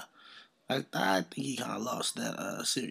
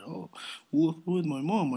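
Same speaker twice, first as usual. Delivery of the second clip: higher, louder mocking voice; mock excuse; 6 semitones higher, 6 dB louder than usual. Mimicking the rapper's excuse about his mom, mocking. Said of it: "I don't wanna hear".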